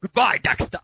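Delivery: high, loud mock-accent farewell; cartoon Dexter voice. Co-host attempting the Dexters' goodbye, high loud cartoon voice. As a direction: call it out like a cartoon boy genius. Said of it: "all the Dexters saying goodbye to each other".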